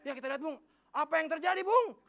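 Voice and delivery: lightly voiced commentator Q and A; commentator asking himself. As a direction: ask and answer yourself like a TV commentator. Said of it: "suka nanya tapi jawab-jawab sendiri".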